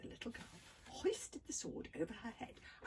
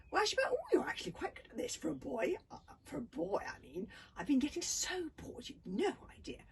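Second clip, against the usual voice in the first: chattering; 7 semitones higher, 6 dB louder than usual. A narrator's reading. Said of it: "she talked constantly throughout".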